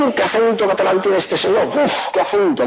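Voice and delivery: exclaiming in put-on amazement; mock astonishment. Madrileño reacting to a Catalan's accent, mock astonished.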